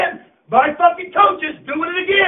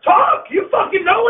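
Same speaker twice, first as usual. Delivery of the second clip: taunting yell; 4 semitones higher than usual. Real, not acted. Coach daring a mouthy senior to talk, taunting yell. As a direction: dare him to speak up.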